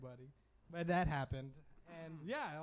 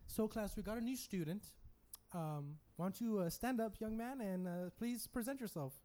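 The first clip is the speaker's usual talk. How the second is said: a touch higher, lightly voiced teacher addressing the class; 4 semitones higher than usual. Teacher introducing a new student, lightly voiced. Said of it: "this is what happened".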